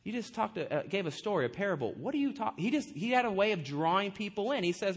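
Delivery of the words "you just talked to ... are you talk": quick, softer puzzled protest; mock confusion. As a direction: imitate baffled listeners, lightly and hurriedly. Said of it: "they would kinda be confused".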